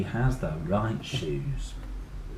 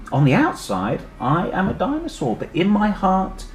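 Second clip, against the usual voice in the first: loud, slowing to the end; children cheer their friend on; cried out; 7 semitones higher, 8 dB louder than usual. Acted. Children cry out to encourage the dinosaur, loud. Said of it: "cried Clara and Jack".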